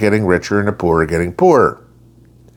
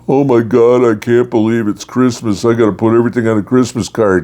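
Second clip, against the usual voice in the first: frantic spender; 2 semitones higher, faster than usual. Retold or imitated. Mocking friends who overspent at Christmas, frantic mock panic. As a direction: ham up the broke holiday shopper in a rush. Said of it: "They're going".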